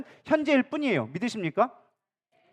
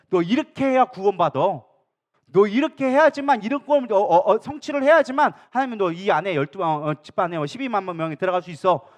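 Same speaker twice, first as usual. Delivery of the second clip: louder, pushing demand; insistent cult recruiter; 3 dB louder than usual. Retold or imitated. Cult recruiter lecturing a believer, insistent and louder. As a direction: press the rules on him hard.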